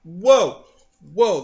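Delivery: loud, high string of whoas; hammed-up frantic calling off; mock alarmed interruption. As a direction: cut in urgently to halt everything. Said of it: "they had to go".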